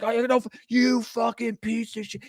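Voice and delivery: high-pitched, sputtering insult; mock cursing. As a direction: spit the insult in a squeaky voice. Player curses at rival.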